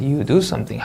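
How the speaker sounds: "You do something" dropping to a close; falling tune. Shown as a demonstration. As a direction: let "something" settle downward. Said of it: "내려 읽어주시면 되겠고요". ("something"을 내려 읽기)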